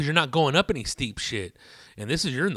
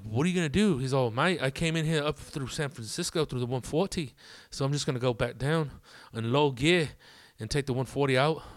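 put-on lightly done British accent. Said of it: "went from sounding like a fucking British dude to an Irish dude".

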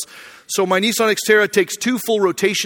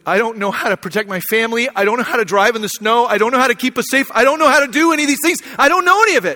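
desperate rising plea; 4 semitones higher, 3 dB louder, faster than usual. Retold or imitated. Panicked plea to the helper.

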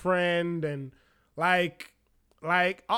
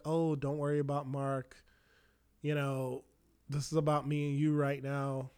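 seductive hush; 5 semitones lower, 7 dB quieter than usual. Retold or imitated. Woman seducing him in story.

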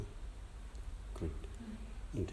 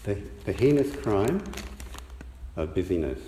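to someone hard of hearing; 2 semitones higher, 4 dB louder than usual. Real, not acted. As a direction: raise the voice so all can hear. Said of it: "speak up, please".

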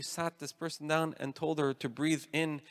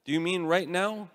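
lightly puzzled, raised pitch on the opening; mildly confused; 3 semitones higher than usual. Retold or imitated. Woman questioning the priest, mildly confused. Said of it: "she seemed a little bit confused".

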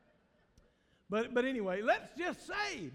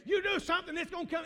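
high, loud mock of a flippant worldly person; 7 semitones higher, 5 dB louder than usual. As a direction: sneer out the world's cheap wisdom. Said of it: "what the uninformed world is gonna say".

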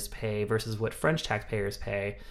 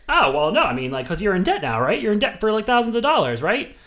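higher and louder, pressing disbelief; mock incredulous Moore; 9 semitones higher, 6 dB louder than usual. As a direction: fake being shocked to drive it home.

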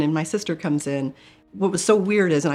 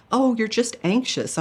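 higher, slow and dismissive; doctor waving away her symptoms, higher and slow; 7 semitones higher than usual. Retold or imitated. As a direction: brush the patient off.

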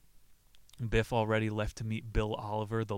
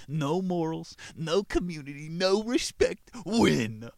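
louder and higher, each phrase hammered out; higher, louder rant building to a slow punchline; mock rally cry; 7 semitones higher, 6 dB louder, slower than usual. Real, not acted. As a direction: bark it like a cynical slogan. Ranting about glory-seeking country.

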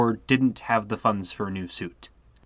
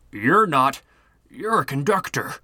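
high, shaken stammer; stammering in shock; 5 semitones higher, 4 dB louder than usual. Acted. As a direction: stammer it out in fright. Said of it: "the man stammered".

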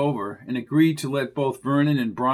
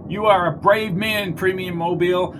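higher, anxious pleading voice; a lightly nervous underling; nervous man voice; 6 semitones higher, 3 dB louder than usual. A narrator's reading. Mundy flattering boss.

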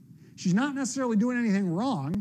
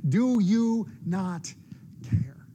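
despairing plea; much slower than usual. Acted. Desperate prayer in dark nights.

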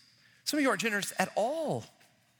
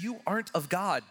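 stern warning. Retold or imitated. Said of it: "What Jesus is saying here is".

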